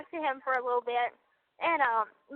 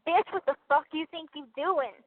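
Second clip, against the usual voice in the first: mock angry telling-off; highly pissed demo. Shown as a demonstration. Woman showing partner how she sounds when pissed, mock angry. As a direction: act out being pissed off, without full force. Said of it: "my voice gets a bit deeper when I'm highly pissed".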